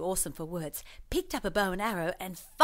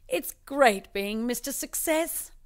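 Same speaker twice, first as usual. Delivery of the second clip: slow, higher smug voice; smug winner; 5 semitones higher, 3 dB louder, slower than usual. Acted. Mister Success gloating on TV, slow and smug. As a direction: savor every word of success.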